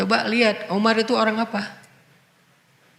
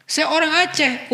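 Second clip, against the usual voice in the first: raised, mocking quote of an excuse; mocking a proud excuse; mock boast; 7 semitones higher than usual. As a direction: toss off the excuse with a higher mocking lilt.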